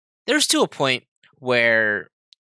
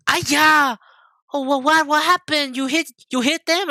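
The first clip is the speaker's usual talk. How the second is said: high, loud imitation of a panicking mom; imitating mom; 14 semitones higher, 5 dB louder than usual. Mimicking mom hearing about the swerve, high alarmed voice. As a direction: play the alarmed mother. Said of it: "she's like".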